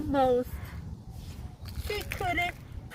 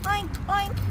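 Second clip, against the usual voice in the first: higher-pitched storybook oinks; pig oinking; 5 semitones higher than usual. Acted. Pig answers the kitten, raised-pitch oinking. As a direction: oink like a pig. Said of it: "said the pig".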